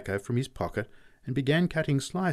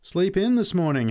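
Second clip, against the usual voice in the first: teasing; 10 semitones higher, 6 dB louder than usual. Acted. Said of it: "He chipped the blokes".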